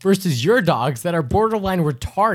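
loud and laughing. Real, not acted. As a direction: tease through laughter.

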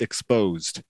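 talking with teeth bared and mouth open; mouth propped open. Shown as a demonstration. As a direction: say it through an open, toothy mouth. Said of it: "try to talk with your mouth open".

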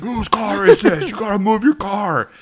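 high, loud mock wrestler bark; costumed wrestler confronting diners, hammed-up high shout; Hulk Hogan. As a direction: play the angry wrestler demanding answers. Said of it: "he's like Hulk Hogan".

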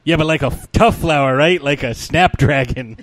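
tough guy insisting while laughing; laughing through mock tough guy. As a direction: push the line, cracking up.

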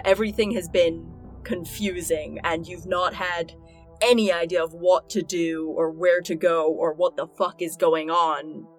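ordinary talk, nothing marked

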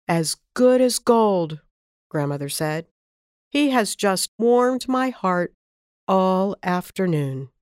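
put-on slow, gentle old grandmother; a hint of a fond grandma, slowly; lightly voiced grandmother. Grandmother praising Roger to his mother, lightly voiced and slow.

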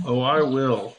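General Patton voice, pipe between teeth; pipe in mouth. Pretend. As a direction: talk around a pipe stem. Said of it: "I'm gonna take that pipe out of my mouth".

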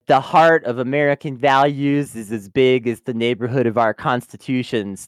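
lightly imitated politician's speech; Pete Buttigieg. Politician spouting American values talk, mildly mock-earnest. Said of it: "very Pete Buttigieg".

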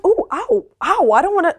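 mock whimper. Acts out being hit sparring.

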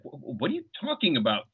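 lightly imitated disbelief, stammering start; mildly incredulous retold question. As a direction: stumble on the first word, as if baffled. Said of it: "she looks kind of incredulously".

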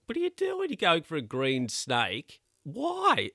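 mock shock. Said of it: "So I was like".

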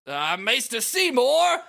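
strained, drawn-out high cry; struggling. Acted. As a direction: call out slowly as if struggling. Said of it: "Wakka is struggling and he says".

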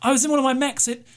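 high, relieved voice of a parched survivor; stranded pilot. Acted. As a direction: play the stranded pilot high, grateful and desperate.

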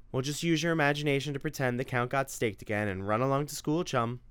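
a mother scolding her son about morning video games; nagging mother. Acted. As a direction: lay down the house rules. Narrator voices the mother.

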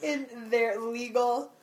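slow, spaced-out words; deliberate pace for someone following along; slow dictation. Shown as a demonstration. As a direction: read it out slowly, word by word. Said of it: "say that last bit slow".

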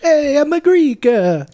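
put-on high, slow, hammy Greek accent. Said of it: "That's Italian".

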